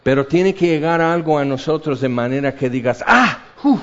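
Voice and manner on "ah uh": awed gasp. Pretend. Awed exclamation at a revelation.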